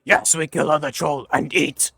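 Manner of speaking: troll voice. Acted. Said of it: "Or, or is really set on the idea of eating the other troll".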